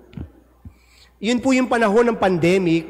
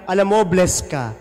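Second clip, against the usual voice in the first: sincere. Shown as a demonstration. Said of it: "Nang sincere".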